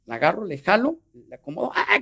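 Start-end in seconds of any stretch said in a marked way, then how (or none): 1.7-2.0 grito imitado. Retold or imitated.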